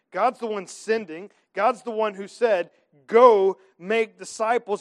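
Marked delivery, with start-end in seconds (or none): 3.0-4.8 slow, louder commanding call; ringing command. Acted. Preacher voicing God's great commission, slow and loud. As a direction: hit it like a royal order.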